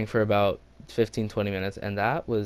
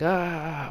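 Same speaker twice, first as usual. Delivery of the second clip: higher drawn-out "ah"; mock fight cry; 6 semitones higher than usual. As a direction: imitate boys going at each other. Imitates boys in a fight.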